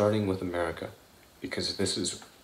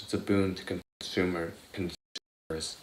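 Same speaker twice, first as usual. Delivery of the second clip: talking around a retainer; wearing a retainer. Real, not acted. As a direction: speak with a retainer in. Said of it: "Sorry, I got my retainers in".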